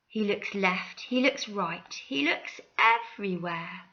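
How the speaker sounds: gentle storybook reading; reading to children. Acted. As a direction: read it like a bedtime story. Reading picture book aloud.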